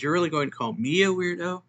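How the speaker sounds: high, quick incredulous question; incredulous objection. Acted. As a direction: protest the name-calling in mock disbelief. Acted offended reply to weirdo.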